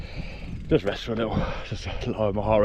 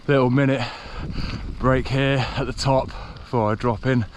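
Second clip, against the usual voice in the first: panting while talking after a climb; breathless from pedalling uphill; out of breath. Real, not acted. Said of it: "just to catch my breath a little".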